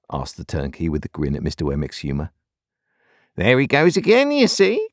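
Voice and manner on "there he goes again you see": high, excited outburst; crying out. A narrator's reading. Wemmick crowing to Pip about the turnkey, high excited cry. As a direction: leap up in pitch, triumphant. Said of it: "cried Wemmick".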